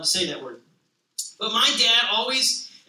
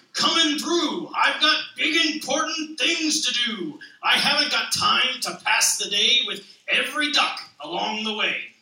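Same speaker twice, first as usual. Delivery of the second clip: bossy dump truck. Acted. Dump truck telling the duck it has no time, lightly voiced bossy brush-off. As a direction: brush everyone aside like a busy big truck.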